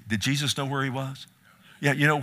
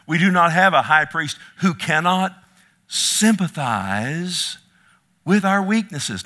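impassioned proclamation; 4 semitones higher, 7 dB louder than usual. Real, not acted. Preacher drives the verse home to congregation, impassioned. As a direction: proclaim it high and loud, stretching sympathize. Verse repeated with greater force.

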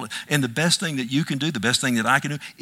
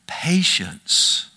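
whispered word; 5 semitones higher than usual. Acted. Quoting scripture list, dropped voice.

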